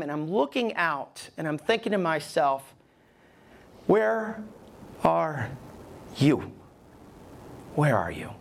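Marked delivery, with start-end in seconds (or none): 3.9-8.3 emotional cry to God. Retold or imitated. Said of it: "then I got real emotional".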